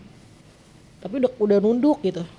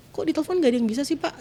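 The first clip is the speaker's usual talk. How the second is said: retold angry question; 6 semitones higher, faster than usual. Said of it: "karena refleks marah".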